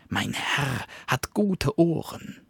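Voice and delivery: high, fast, bragging dog voice; sly little dog. Acted. Cunning little dog tempts the wolf, high and eager. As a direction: tempt him with a tiny eager voice.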